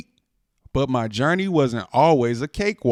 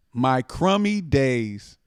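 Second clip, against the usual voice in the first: slow title; much slower than usual. Acted. Announcing the title.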